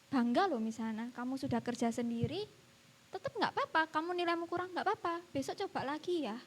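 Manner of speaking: soft, proud reassurance; proud encouragement. Retold or imitated. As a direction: encourage a pupil with quiet pride. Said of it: "saya ngomongnya dengan rasa bangga".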